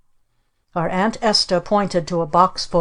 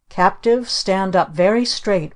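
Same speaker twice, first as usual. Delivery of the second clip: mock-stern command; ordering. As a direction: bark orders at the captives. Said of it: "ordered our Aunt Esta".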